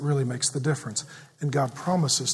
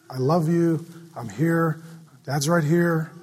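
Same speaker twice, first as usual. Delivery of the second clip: comforting father; slower than usual. Retold or imitated. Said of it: "with a comforting voice".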